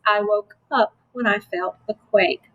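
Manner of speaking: "I woke up / when I felt the quake" in two phrases; read like talking. Shown as a demonstration. Teacher modelling reading like talk, "I woke up / when I felt the quake". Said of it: "We read like we talk".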